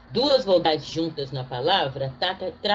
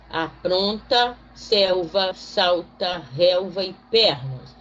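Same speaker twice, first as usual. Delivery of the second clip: slow word list read; slower than usual. Shown as a demonstration. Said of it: "Leia agora também em voz alta".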